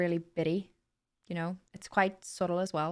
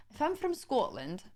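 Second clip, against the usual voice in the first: softer attempt at a Scottish accent; 3 semitones higher, 5 dB quieter than usual. Streamer testing how a Scot talks, tentative Scottish accent. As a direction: try out a Scottish lilt. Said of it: "how would I say window?".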